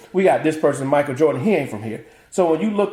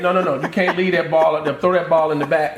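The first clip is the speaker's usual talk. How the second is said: laughing while barking orders; giving orders in the car park, laughing; bossy laughing instructions. Retold or imitated. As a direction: hurry everyone with nervous fuss. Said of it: "I'm like".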